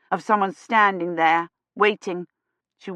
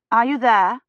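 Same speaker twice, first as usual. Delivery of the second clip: calling out; 5 semitones higher, 5 dB louder than usual. A narrator's reading. Calling into dark church.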